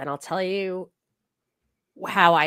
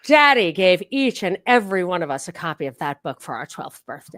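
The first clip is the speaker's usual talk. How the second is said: put-on slightly posh accent; 4 dB louder than usual. Aunt to her niece Monica on the phone, slightly posh accent. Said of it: "it was a little posh".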